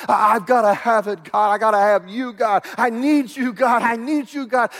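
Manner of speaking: urgent plea, rising as it repeats; cry for God. Acted. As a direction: plead with mounting desperate need. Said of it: "a cry for God".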